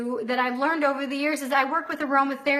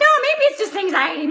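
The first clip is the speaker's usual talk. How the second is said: retold brushing off; 6 semitones higher, 4 dB louder, much faster than usual. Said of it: "I'm like".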